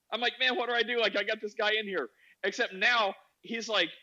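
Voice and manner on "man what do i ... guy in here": high, acted dismay; helpless exasperation. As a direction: despair over a friend mid-story. Acting own helpless dismay.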